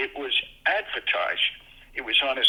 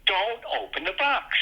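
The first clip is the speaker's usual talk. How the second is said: higher, drawn-out warning cry at the radio; mild mock yell; 6 semitones higher than usual. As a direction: plead with the hero, slow and higher. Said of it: "And you're screaming".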